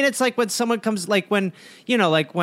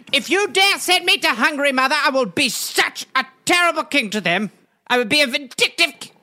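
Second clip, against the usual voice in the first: petulant prince; 4 semitones higher than usual. Acted. Prince threatens his mother.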